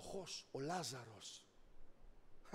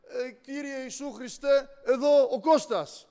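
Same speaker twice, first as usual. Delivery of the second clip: simple prayer, slow; 6 semitones higher, 9 dB louder than usual. Retold or imitated. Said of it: "Την επόμενη μέρα".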